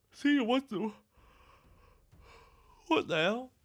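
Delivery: high, loud startled cry. Real, not acted. Streamer startled mid-sentence, loud high outcry. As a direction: jolt up in pitch, what the hell.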